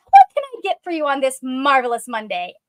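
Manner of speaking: cheery sing-song catchphrase; hammed-up cheery cashier; catchphrase girly. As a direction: sell the alliteration. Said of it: "alliteration and catchphrase girly".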